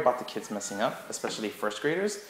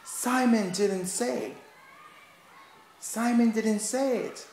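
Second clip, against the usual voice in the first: high, louder teasing no no no; playful scolding; 13 semitones higher, 3 dB louder, much slower than usual. Shown as a demonstration. Teacher catching kids who touched their head, playful. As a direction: catch them out with big playful alarm. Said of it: "be like".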